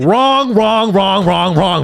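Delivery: high, loud chant of wrong; repeated shouted wrong. Real, not acted. Shouting wrong at Vivek on the clip, high and loud. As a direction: shout wrong over and over at the screen.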